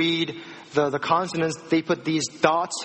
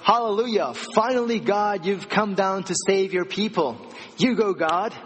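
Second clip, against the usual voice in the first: excited Moses; 3 semitones higher than usual. Retold or imitated. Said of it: "he was like".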